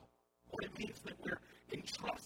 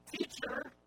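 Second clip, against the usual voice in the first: louder call to a teacher; crying out; 6 dB louder than usual. Retold or imitated. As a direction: cry out to get the teacher's attention. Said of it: "so the man cries out".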